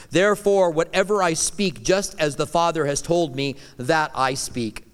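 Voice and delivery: measured preaching read; scripture reading. Acted. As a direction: read it out as a sacred declaration. Reads scripture as Jesus's words.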